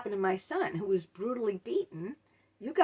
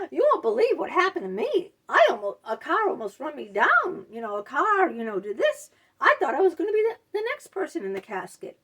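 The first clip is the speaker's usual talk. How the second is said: higher, louder, hammed-up self-pity; mock dramatic gushing; 5 semitones higher, 5 dB louder than usual. Mocking the sister-in-law's car story, hammed-up. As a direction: imitate her breathless drama, overdone.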